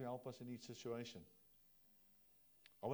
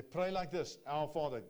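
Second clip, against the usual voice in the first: loud ringing proclamation, higher; preaching loudly; 3 semitones higher, 9 dB louder than usual. Acted. Preacher calling out Jesus' words to the congregation, loud. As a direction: proclaim it to the whole room.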